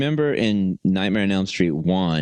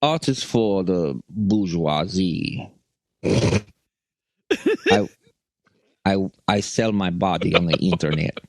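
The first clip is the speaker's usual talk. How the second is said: Russian landlady. Retold or imitated. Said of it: "trying to do my, uh, my ex-landlady".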